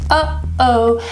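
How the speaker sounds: "Uh-oh." split by a closed throat; glottal stop. Shown as a demonstration. Letting learners feel it in the throat, glottal stop. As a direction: hold a tiny catch between the syllables of "Uh-oh". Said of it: "is a glottal stop".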